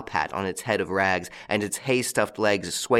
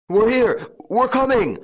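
high, loud urgent shout; 13 semitones higher, 6 dB louder than usual. A narrator's reading. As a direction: call out urgently to someone in trouble. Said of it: "shouted the eldest".

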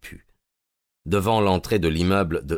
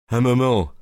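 higher, louder urgent interruption; heated cry; 6 semitones higher, 6 dB louder than usual. Acted. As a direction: stop him with warmth and force. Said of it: "s'écria Gregson avec chaleur". (Gregson retient Holmes, avec chaleur et force)

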